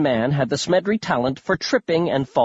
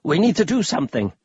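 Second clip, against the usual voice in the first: much higher, louder excited cry; exclaiming loudly; 8 semitones higher than usual. Acted. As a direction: shout it in an old man's panic. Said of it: "Grandpa Smedry exclaimed".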